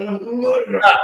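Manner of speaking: a stunned "A photograph?"; incredulous echo. Retold or imitated. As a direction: throw the word "photograph" back, astonished. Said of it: "I went".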